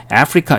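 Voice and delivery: 아프리카 starting with "ae", as in Africa; American pronunciation. Shown as a demonstration. Teacher asking why Americans say it so, 아프리카 with initial ae. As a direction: say 아프리카 as AE-fri-ka. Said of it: "왜 미국 애들은".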